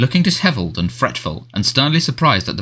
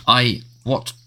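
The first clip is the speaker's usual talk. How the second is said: spluttering; much slower than usual. Acted. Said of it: "spluttered the Prime Minister".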